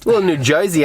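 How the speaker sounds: badly faked Jersey accent drifting into Australian; hammed-up, off-target New Jersey twang. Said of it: "That sounded like Australian more than".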